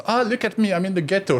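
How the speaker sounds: high, haughty posh speaker; mock posh tourist voice. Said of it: "I did the same video".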